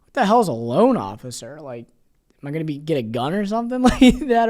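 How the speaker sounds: puzzled at a job title, laughing in disbelief; incredulous laughing thought. Retold or imitated. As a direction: laugh off the strange job title as you ask. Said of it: "I'm like".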